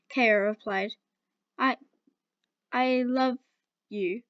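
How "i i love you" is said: halting, broken "I, I love you"; stuttering. Acted. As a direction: stumble through it, lovestruck. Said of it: "the love-struck girl stuttered".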